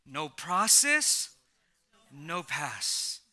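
"No process" drawn out very slowly, then "no pass" dropped low; slow emphatic repeat. Shown as a demonstration. Pastor repeating his catchphrase to the church, slow and emphatic. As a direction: lean on every word, slowly. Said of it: "Let me say it again".

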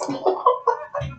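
high cackling laugh; sudden high cackle; gloating cackle. Real, not acted. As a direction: cackle in delight at their downfall. Gloating over crying exes.

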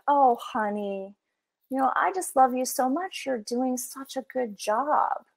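a hint of a doting granny soothing you; kind grandmother voice. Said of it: "called the grandmother. And so she's that kind, nurturing voice".

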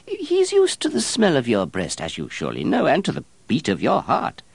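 a flustered, evasive monk; fussy monk voice. Acted.

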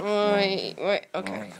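sudden loud "wait"; startled. Real, not acted. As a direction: blurt it out, caught off guard. Startled by the dogs.

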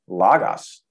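logos with the pitch lifted on the accented syllable "lo"; rising tone. Shown as a demonstration. Teacher showing an old Greek acute accent, tone going up. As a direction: raise the tone on the start of "logos". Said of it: "'cause it goes up".

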